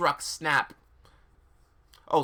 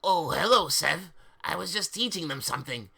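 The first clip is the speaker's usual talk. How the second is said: lie. Acted. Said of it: "he lied".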